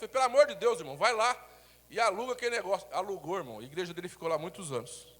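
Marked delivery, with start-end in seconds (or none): 0.1-2.9 urgent plea. Retold or imitated. Pastor urging his friend.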